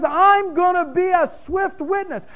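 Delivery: high, booming voice of God declaring judgment; God's voice. Retold or imitated. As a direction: proclaim it as God, high and strong. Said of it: "And God says".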